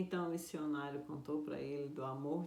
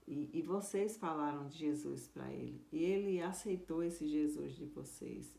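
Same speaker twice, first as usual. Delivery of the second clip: bitter accusation, louder; angry outburst; 2 semitones higher, 4 dB louder than usual. Acted. Sorcerer shouting at missionaries. (explosão de raiva, alta e aguda no início)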